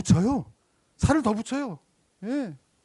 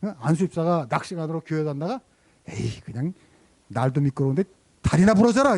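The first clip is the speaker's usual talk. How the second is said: mild mock outburst. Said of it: "화를 버럭 낸 거예요".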